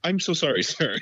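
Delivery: gentle apology. Retold or imitated. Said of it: "gently and was like".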